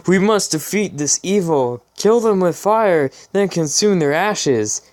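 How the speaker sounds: hammed-up high war cry; mock yell. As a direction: ham up Pinkie's battle yell. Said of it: "Pinkie yelled".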